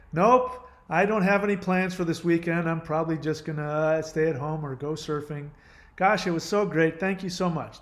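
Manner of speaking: mock-cheerful polite reply; feigned friendliness. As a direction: play the agreeable customer, hiding irritation. Fake friendly reply to cashier.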